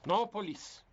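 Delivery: loud, firm no; sharp loud refusal. Acted. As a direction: shut it down hard. Husband forbids police sharply.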